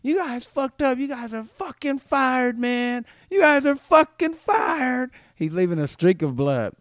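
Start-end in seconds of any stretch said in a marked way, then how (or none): 0.0-5.1 high, loud, slow furious yell; screaming. Retold or imitated. Dragged shoplifter screams threats at the guards, high and loud. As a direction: yell that they're all fired. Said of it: "while he's screaming".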